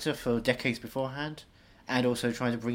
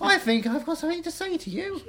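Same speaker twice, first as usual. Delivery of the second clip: Maggie Smith impression; 4 dB louder than usual. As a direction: play a fussy elderly dame, stretched out. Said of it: "Maggie Smith popped out".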